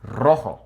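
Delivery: "Rojo" opened on a rolled Spanish r; trilled r. Shown as a demonstration. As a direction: roll the first sound of "Rojo" for learners. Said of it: "where your tongue starts to trill".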